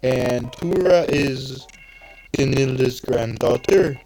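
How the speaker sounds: slow stereotypical Swedish accent. Shown as a demonstration. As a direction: say Tora in mock Swedish. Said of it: "a stereotypical Swedish accent".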